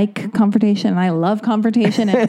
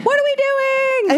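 exasperated; slower than usual. Retold or imitated. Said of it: "mock exasperated".

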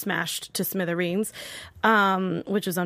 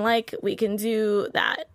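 slow ditzy drawl; slower than usual. Retold or imitated. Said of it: "I counted how many times they said, like".

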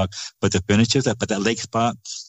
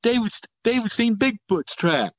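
mocking; 13 semitones higher than usual. Brother mockingly telling his wife.

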